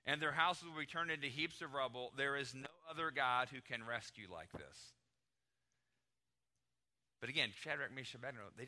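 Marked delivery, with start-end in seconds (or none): 0.0-4.9 loud, raised, threatening proclamation; thundering threat that eases toward the end; angry decree. Acted. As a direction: play an enraged ruler laying down the law. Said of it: "he's got anger all over the place".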